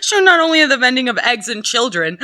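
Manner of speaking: giggling reread of the mistake; laughing misreading. Real, not acted. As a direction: laugh while rereading the line.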